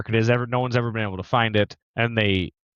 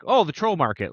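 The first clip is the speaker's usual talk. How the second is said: mock duh realization; 4 semitones higher than usual. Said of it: "almost like a duh moment".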